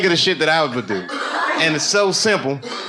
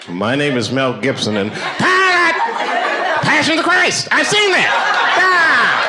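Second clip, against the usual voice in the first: slow, much higher, louder laughing shout; mock Gibson exchange; 8 semitones higher, 5 dB louder, much slower than usual. Gibson meets the local, shouted high and slow. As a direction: overblown reply shouted through laughter. Mel Gibson casting scene.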